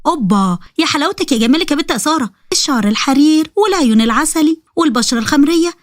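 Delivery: lightly voiced girl in love with her looks; vain girl, self-admiring. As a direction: coo at your own reflection.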